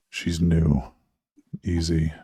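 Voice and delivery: low, slow beast voice inside; a growly inner beast, slowed down; werewolf. Acted. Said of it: "the beast's voice inside".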